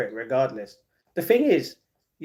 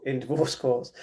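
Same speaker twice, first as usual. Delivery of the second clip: usual speaking voice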